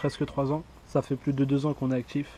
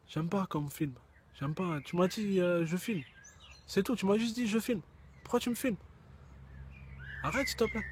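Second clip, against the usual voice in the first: soft, whining, higher voice; whiny quiet complaint; 4 semitones higher, 9 dB quieter than usual. Acted. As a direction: grumble softly like a shy kid. Shy cameraman complaining. (ton plaintif et gêné)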